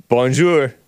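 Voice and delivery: bonjour with English accent; bonjour, English-speaker French; foreign accent in french. Shown as a demonstration. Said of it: "English people trying to speak French".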